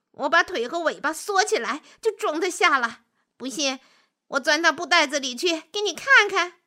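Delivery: self-assured wolf rushing to show off; eager wolf. Acted. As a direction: boast confidently, keen to prove it. Boastful wolf offers a demonstration.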